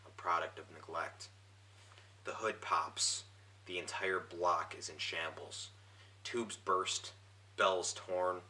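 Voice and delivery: measured recital with a pause after each image; poetry reading. Acted. Poet reading his broken-down car poem, measured recital. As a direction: read it out line by line, deliberately. Reads second poem aloud.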